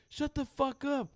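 high, slow, emphatic mock telling-off; imitated mad kid. Winning kid tells off the sore losers, imitated anger. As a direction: stretch each insult like a kid who's mad. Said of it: "that's how I talk when I'm mad".

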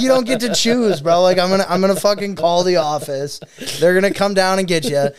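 high, loud mock scolding; exasperated yell at the kid. Teacher scolding a refusing kid, high and loud. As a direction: yell at him like a fed-up teacher. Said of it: "I'm like".

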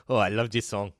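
light mock French accent. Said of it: "in a French accent is like".

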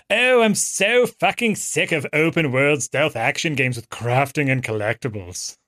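a lightly voiced, slowed British game critic rant; half-hearted mock reviewer grumbling; trying a Yahtzee impression. The speaker tries an impression of his cohost, mock annoyed rant. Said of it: "No, that's not a good impression at all".

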